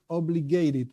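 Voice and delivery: "obligated" given deliberate emphasis; stress on obligated. Real, not acted. Teacher clarifying what non-Jews must do, stressing "obligated". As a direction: lean on the word "obligated". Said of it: "I again stress the word".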